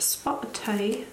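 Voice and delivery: playful mock British accent; badly faked British lilt; terrible British accent. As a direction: put on a hammy British accent for fun. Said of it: "That's my terrible British accent".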